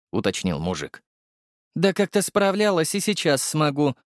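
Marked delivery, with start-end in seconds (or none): 1.7-4.0 rough reply. A narrator's reading. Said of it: "грубо ответила девушка".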